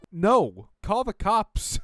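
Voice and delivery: a high, loud cry for help; mock panic yell. Reader shouting at a tweet in mock panic, high and loud. Yelling reaction while reading post.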